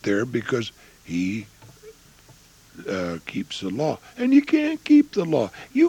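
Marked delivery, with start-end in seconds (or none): 4.2-5.9 2 high, loud shout of conviction; 3 cry it out over the congregation; 4 a preacher's sudden high yell; 1 preaching shout. Real, not acted. Preacher hammering a point.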